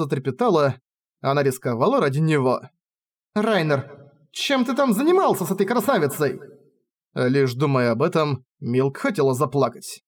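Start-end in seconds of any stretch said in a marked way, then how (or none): 3.3-6.4 jealous reproach. Acted. Jealous heroine questioning Rainer.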